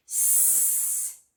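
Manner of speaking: a long whispered hiss, sss; isolated S sound. Shown as a demonstration. Teacher isolating the first sound for children: whispered sss. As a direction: hiss the S on its own, no voice. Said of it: "let's think about the sound".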